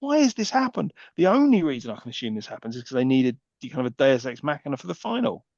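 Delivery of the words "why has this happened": much higher, slow, drawn-out disbelief; mock bewildered outburst; incredulous. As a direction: stretch it out like you can't believe your eyes. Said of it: "and I'm like".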